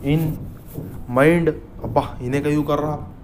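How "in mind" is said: very slow, spaced-out drone; dazed slow reading. Acted. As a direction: drag every word like a numb student. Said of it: "I am reading all, but nothing is going in mind".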